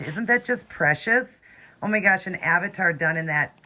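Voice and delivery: excited gushing. Real, not acted. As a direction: coo over something precious. Gushing over doll's art.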